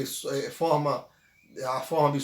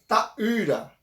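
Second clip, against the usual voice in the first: slow model pronunciation; 3 semitones higher than usual. Shown as a demonstration. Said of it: "se aproximar o máximo possível da pronúncia".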